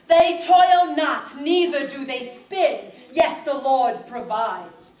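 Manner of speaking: a hint of a posh British preaching voice; lightly put-on British accent for the crowd; fancy preacher accent. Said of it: "What happened to your fancy accent?".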